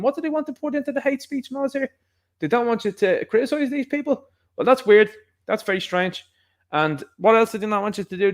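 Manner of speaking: sarcastic faux-naive questioning, high; mock incredulous. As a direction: play dumb, mocking them.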